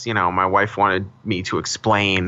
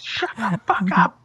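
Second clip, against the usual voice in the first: mock annoyed; 9 semitones higher, slower than usual. Mock fight with co-host.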